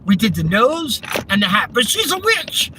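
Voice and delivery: ends high and sheepish; mock villager's sheepish confession; Monty Python villager quote. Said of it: "Monty Python's Flying Circus".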